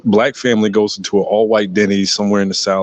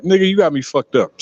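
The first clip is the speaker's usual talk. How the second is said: put-on higher-pitched casual teen quote; imitating white boy; 7 semitones higher than usual. White boy on BART talking to his friend, imitated higher. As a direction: mimic a teenager's offhand line to his friend. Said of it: "Said it just like that".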